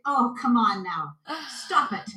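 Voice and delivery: lightly imitated Irish girl; wee Irish girl. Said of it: "I started talking like a wee Irish girl".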